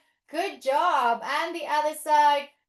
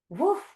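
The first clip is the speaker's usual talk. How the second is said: dog bark. Pretend. Playing Lola the dog.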